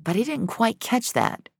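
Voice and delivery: lightly voiced dream stranger. A narrator's reading. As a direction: speak as the strange rainbow-haired woman. Rainbow woman speaking in dream.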